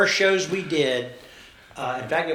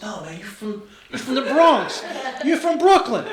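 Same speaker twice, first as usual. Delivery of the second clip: rising, louder, laughing insistence; excited fan; 9 semitones higher, 6 dB louder than usual. Retold or imitated. Fan insisting he's from Brooklyn, excited and laughing. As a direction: laugh it out, higher with each borough. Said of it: "He said".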